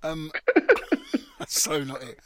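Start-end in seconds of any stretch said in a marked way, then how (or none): 0.6-2.2 laughing. Real, not acted. Laughs at own buzzer.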